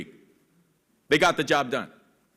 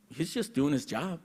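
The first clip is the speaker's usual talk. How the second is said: matter-of-fact mother; 5 semitones lower, 10 dB quieter than usual. Retold or imitated. Mother answers without looking up.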